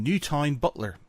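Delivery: "Newtown" sounded out fully, as spelt; full pronunciation of Newtown. Retold or imitated. Colleague naming her friend's town, Newtown pronounced in full. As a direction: say Newtown Butler with both syllables full, "New-town". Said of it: "disagreement about how a certain thing was said".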